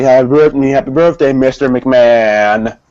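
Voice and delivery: slow fawning birthday wish; sucking up. Retold or imitated. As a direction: kiss up to the boss, drawn out. Imitating JBL kissing up.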